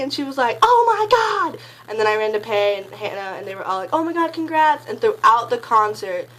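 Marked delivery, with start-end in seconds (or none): 0.6-1.6 much higher, louder oh my God; squealing excitement. Retold or imitated. Friend's excited reaction. 3.9-4.9 higher, louder cheer; excited congrats. Retold or imitated. Friends congratulating her.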